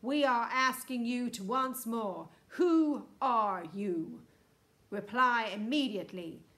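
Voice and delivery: loud, commanding loudspeaker threat; booming ultimatum. A narrator's reading. Houston threatens to freeze the hotel, booming and stern. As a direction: boom it out like a stern official warning. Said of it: "boomed the voice".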